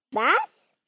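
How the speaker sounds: high, rising call of "what"; surprised cry. A narrator's reading. Friends reacting all at once, surprised cry. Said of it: "riefen alle wie aus einem Munde".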